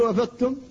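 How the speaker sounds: أفضتم with the ض absorbed into the ت; faulty أفضتم, ض not sounded; merged dad. Shown as a demonstration. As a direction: demonstrate the common error in أفضتم. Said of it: "كثيرا من الناس يقول".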